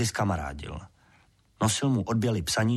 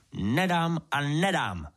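slow, higher, dug-in refusal; stubborn angry refusal; 6 semitones higher, slower than usual. A narrator's reading. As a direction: spit out each no slowly in anger. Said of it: "vztekal se mlynář".

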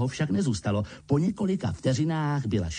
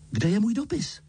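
put-on high boyish demand; confronting; 12 semitones higher than usual. A narrator's reading. Harry confronts uncle about his letter, high. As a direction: challenge him straight away. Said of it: "uhodil Harry na strýce".

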